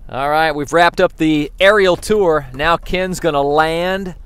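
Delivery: slow, drawn-out sportscaster call; play-by-play commentary. Pretend. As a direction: call the drone landing like an announcer. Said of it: "give him a play-by-play".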